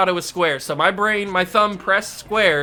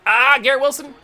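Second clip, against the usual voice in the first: excited cheer; 9 semitones higher, 5 dB louder than usual. Real, not acted. Gamer cheers a catch.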